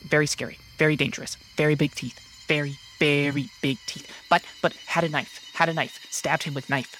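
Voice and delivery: quick, staccato mouse chatter; excitable mouse. Acted. Mouse describing the scary predator, quick and urgent. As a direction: rattle off short repeated fragments.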